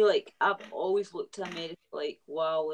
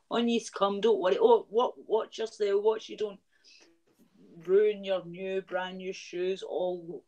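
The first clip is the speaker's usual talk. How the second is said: higher, sarcastically helpful voice; mock welcome; 3 semitones higher than usual. Sarcastic Scot waving migrant boats ashore, mock-welcoming. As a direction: fuss over them in mock welcome.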